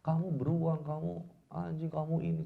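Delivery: acted marital name-calling; angry wife. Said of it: "istrinya marah sama suaminya".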